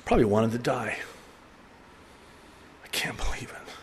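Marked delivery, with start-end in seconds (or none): 2.8-3.7 despairing whisper. Retold or imitated. Peter despairing after the denial.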